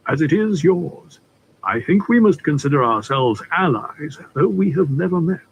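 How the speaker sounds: a hint of a courtly older gentleman, unhurried; polite stranger easing into business, lightly played; lightly voiced suave Litchfield.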